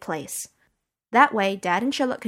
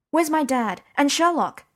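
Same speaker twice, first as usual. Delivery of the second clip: urgent demand, pitched higher; 7 semitones higher, 4 dB louder than usual. A narrator's reading. Girl confronting Mycroft at the door, demanding answers. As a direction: insist on an answer right now. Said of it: "I demanded".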